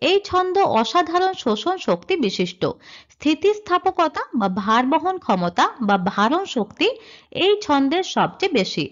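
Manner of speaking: slow, deliberate reading of the written rule; slow slide reading. Shown as a demonstration. Teacher reading the rule off her slide, slow. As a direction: read each term out slowly for the class. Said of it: "এখানে আমি লিখেছি".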